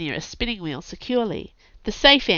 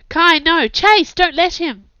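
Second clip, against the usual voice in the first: high, loud cry from far above; desperate yell; 11 semitones higher, 11 dB louder, slower than usual. Acted. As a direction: shout to stop him, panicked. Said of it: "There was a yell from the balcony".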